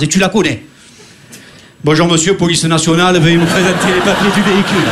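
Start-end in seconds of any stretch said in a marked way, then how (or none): 1.8-4.8 lightly acted police officer, low and even; film policeman. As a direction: recite a stock traffic-stop line. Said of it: "c'est pour dire qu'une phrase". (policier de cinéma, à peine joué)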